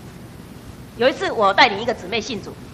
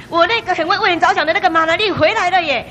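delighted daughter; 7 semitones higher, 6 dB louder than usual. Retold or imitated. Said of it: "忽然间笑得很开心".

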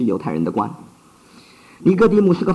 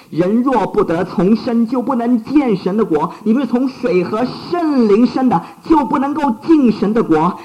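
earnest warning; 7 semitones higher than usual. Acted. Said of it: "反而耶稣对他怎么说".

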